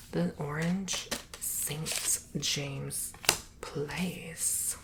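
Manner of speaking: fast breathy whisper to a listener; ASMR whisper. Acted. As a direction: whisper it close to the mic. Slow whispered ASMR narration.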